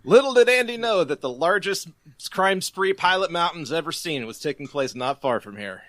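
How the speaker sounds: mock storybook narrator, lifted at the start; happy narrator. Closing narration over the jail-cell zoom out, mock narrator. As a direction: narrate it like a Christmas special closing. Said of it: "like, a happy narration by".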